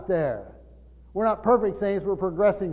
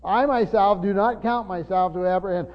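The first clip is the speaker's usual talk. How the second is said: firm stress on "I myself"; very emphatic. Retold or imitated. Preacher repeating his translation of Paul, firmly emphatic. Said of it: "very emphatic".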